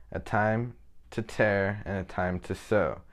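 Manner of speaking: slow, measured reading, leaning on each "time"; scripture reading. Acted. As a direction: read the verse slowly and solemnly. Reads Bible verse aloud.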